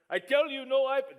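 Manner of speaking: loud, high barked order like an airport guard; a hint of a mock German officer shouting; mock angry yell. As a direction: bark it at him like a stern officer scolding a traveler. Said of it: "Just yelling at me".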